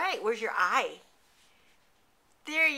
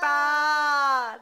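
loud bleating baa, a bit higher; sheep bleat imitation; 4 semitones higher, 8 dB louder than usual. Shown as a demonstration. Parent echoing the toddler's sheep sound, loud bleat. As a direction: bleat it back like a playful sheep.

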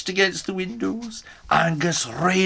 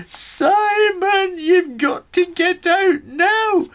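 loud high urgent yell of Simon; shouting; 13 semitones higher, 5 dB louder, slower than usual. Acted. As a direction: bang on the door and yell. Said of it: "shouted at the top of my voice".

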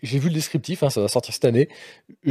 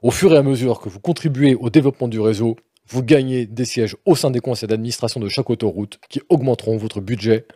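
deadpan, lower formal read; mock serious reading; 4 semitones lower than usual. Host reading the game description with mock austerity. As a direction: read it with stern rigour. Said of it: "avec toute la, tout, tout le sérieux et la rigueur".

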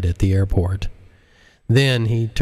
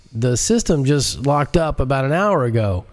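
anxious director; 5 semitones higher than usual. Acted. Director explains.

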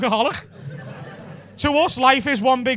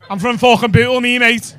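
lightly hammed-up Scouse accent; a hint of Bootle Scouse swagger; 4 dB louder than usual. Comic mocking Irish lad in Bootle, light Scouse accent. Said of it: "That went dead scouse then".

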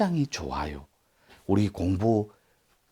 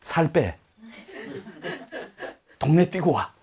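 laughing tease; 9 semitones higher than usual. Pretend. Teasing husband with laugh.

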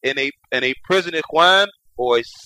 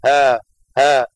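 fearful groan; 5 dB louder than usual. Shown as a demonstration. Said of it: "out of fear and out of pain".

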